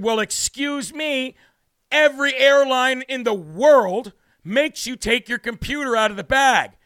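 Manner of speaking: drawn-out indignant comeback; sarcastic retort. Retold or imitated. Retelling his comeback to the screener, slow and indignant. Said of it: "And I said".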